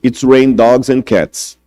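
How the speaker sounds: "It's rain dogs and cats" said very slowly; slow English idiom. Shown as a demonstration. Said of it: "ouço alguém falando em inglês". (expressão em inglês, bem devagar)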